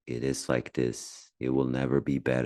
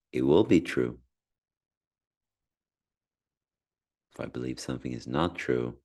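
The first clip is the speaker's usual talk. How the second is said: unhurried meditation guide with long pauses; measured, calm instruction with space between phrases; guided meditation; 2 semitones lower than usual. Acted. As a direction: ease the listener into calm breathing.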